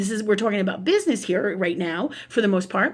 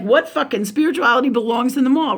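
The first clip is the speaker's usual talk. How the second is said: a bit louder, indignant retold rant; mock outraged disbelief; 3 semitones higher, 4 dB louder than usual. Retelling her disbelief at a spiritual mall shop, mock outrage. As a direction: scoff at the idea in retold shock. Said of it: "'cause I'm freaking out about it".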